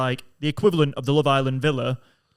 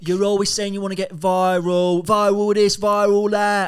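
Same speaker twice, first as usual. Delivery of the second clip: mocking dad; 4 semitones higher than usual.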